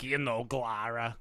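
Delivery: slow, whispery slug lady. Retold or imitated. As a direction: breathe it out like the slug lady from Monsters Inc. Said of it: "she talks like the slug lady from Monsters".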